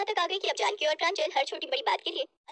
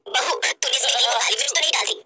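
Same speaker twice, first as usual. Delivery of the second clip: put-on lower, cross older-relative voice; angry mother-in-law; 3 semitones lower, 9 dB louder than usual. Mother-in-law questioning bahu about the pepper, cross. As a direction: turn from worry to sharp questioning. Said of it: "गुस्से में आ जाती है".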